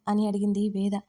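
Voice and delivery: plain reading voice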